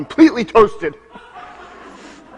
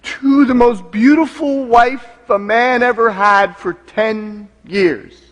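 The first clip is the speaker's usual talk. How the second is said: raised pitch, slowing right down at the end; making a toast; 3 semitones higher than usual. Acted. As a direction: toast your wife, drawing out the final words. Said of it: "I made a toast".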